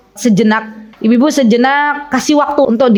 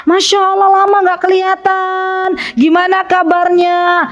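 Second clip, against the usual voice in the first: lilting, caring hello; kindly inquiry; 6 semitones higher than usual. Shown as a demonstration. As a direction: model a welcoming check-in on a friend. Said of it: "Kalau kita tanya ... Bagus kan?".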